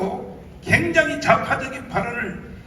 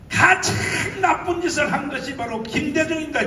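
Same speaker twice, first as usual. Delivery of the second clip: rally shout; 2 semitones higher than usual. Real, not acted. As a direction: thunder it out at the rally. Preacher denounces Kim Dae-jung to crowd.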